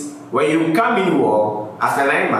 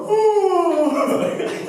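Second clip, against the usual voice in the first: high-pitched put-on yawn; demonstrated yawn. Shown as a demonstration. Showing viewers that yawning is contagious, mock yawn. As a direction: let out a high, drawn yawn. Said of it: "And let me yawn".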